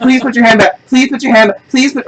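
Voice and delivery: high-pitched, over-polite imitation; high, repetitive mock-polite request; mock gentle officers. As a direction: mimic a very gentle cop pleading. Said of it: "are the gentlest handcuffers".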